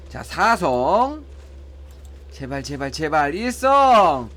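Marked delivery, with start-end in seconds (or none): 2.3-4.3 real pleading. Real, not acted. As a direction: beg under your breath, then call out the result. Begging the game, then sees result.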